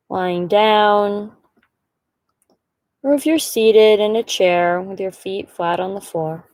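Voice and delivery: calm, measured meditation guide, pausing between phrases; guided meditation. Acted. Guide inviting listeners to settle and breathe, calm meditation voice. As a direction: lead them gently, leaving long silences between instructions.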